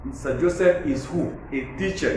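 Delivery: "teacher" given the weight; teacher's demo of emphatic stress on "teacher". Shown as a demonstration. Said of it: "a point of emphasis is teacher".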